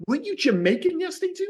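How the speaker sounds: high-pitched baffled query; puzzled voice jumping up high; mock incredulous question. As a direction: act out a colleague's disbelief. Acts out puzzled wrestling colleagues.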